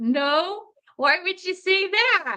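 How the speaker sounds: high, strange, odd-sounding, evasive delivery.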